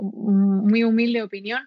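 self-deprecating opinion, laughed out slowly; laughing. Real, not acted. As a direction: chuckle out a modest disclaimer. Modest self-deprecating aside.

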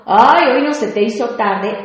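sarcastic sigh on Ay, then the jab; negative tone. Shown as a demonstration. Host demos a sarcastic greeting, snide. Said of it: "estoy dando un tono negativo".

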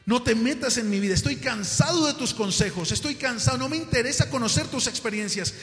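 loud acted telling-off; angry outburst. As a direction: push back hard and loud at dad. Son snaps at father by phone. (arrebato de enojo, en voz alta)

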